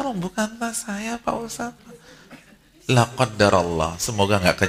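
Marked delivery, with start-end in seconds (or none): 0.0-1.8 high, slow, breezy put-on voice of a carefree maid; mock carefree maid. Preacher mimicking a maid telling the ustadz, high carefree voice. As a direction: play the unbothered maid, light and high. Owner shrugging off lost bag.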